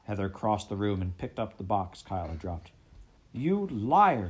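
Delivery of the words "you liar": high, loud accusing shout; angry shout. Acted. Heather accusing Kyle, shouting angrily. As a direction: hurl the accusation at him. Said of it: "she shouted".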